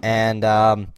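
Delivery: light put-on Canadian hoser accent; hammed-up Canadian accent, easygoing; mock Canadian hoser. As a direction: play a chatty Canadian hoser signing off. Hoser character sign-off.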